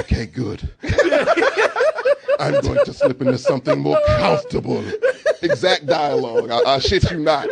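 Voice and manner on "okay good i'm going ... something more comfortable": falsetto-high, laughing camp line; laughing high mock seduction. Mocking Victor, a laughing, high, campy come-on. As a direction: giggle it out like a coy seducer. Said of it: "He's like".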